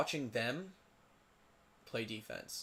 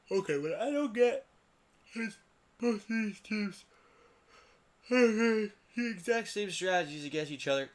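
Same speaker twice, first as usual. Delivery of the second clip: exasperated rant; 9 semitones higher, 6 dB louder than usual. Real, not acted. Ranting about the game's teams.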